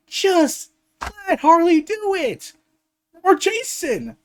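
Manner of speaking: high, fired-up pleading; excited. Real, not acted. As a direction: push it like you can't believe nobody does it.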